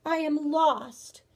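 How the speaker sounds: slow, mournful storybook bear; very sad voice. Acted. Bear confessing to grandmother, sad voice. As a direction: draw it out forlornly, a little high. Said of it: "in a very sad voice".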